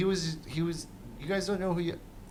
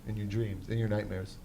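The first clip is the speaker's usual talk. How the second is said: low breathy ghost-story whisper; mock eerie whisper; spooky whisper; 4 semitones lower, 5 dB quieter than usual. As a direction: whisper it like a scary tale. Spooky joke about nightmares.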